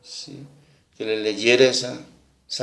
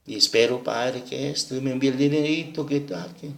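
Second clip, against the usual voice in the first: softer, gentle and lighter; soft tender reading; 6 dB quieter than usual. Retold or imitated. Young woman finishes reading the letter to the father, softly. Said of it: "con una suavidad y con un cariño y un amor".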